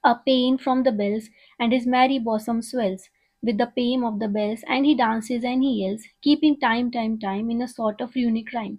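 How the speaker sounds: slow, measured poetry reading; poem recital. Acted. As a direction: read each line out slowly like a recital. Reads poem aloud slowly. (धीमी, नपी-तुली कविता पाठ)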